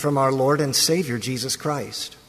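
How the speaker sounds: measured, solemn blessing to the congregation; formal liturgical greeting. Acted. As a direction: pronounce the blessing gently and formally. Liturgical greeting opening the service.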